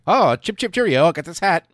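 put-on high, loud toff voice in a posh British accent. Soldier brags about the stolen hat in a posh British accent. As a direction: ham up a chipper upper-class British accent. Hammed-up posh Brit after beheading.

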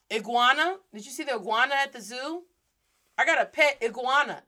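iguana with short American i; casual American iguana; English pronunciation. Shown as a demonstration. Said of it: "That short American English I".

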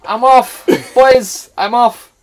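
high, loud announced exit; put-on high shout of departure; Jace impression. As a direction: call it out to the squad, mimicking a teammate. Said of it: "he used, used to say".

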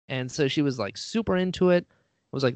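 usual speaking voice

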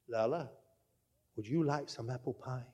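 soft, low whispered offer. Retold or imitated. Grandmother whispering a tempting offer from the doorway. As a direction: hush it like a secret treat. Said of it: "said in a whisper".

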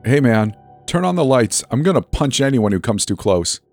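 tense, high threat; threatening call-out. Acted. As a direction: warn off a stranger in the dark. Threatening the unseen voice.

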